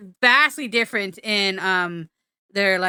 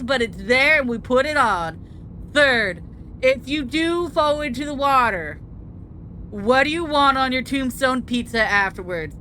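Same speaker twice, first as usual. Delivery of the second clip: surfer dude voice. Acted. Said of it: "Why am I doing surfer voice?".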